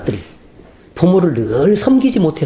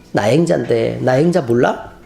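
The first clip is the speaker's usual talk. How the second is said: changed spirit voice; 5 semitones lower, slower than usual. Retold or imitated. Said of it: "목소리가 바뀌면서".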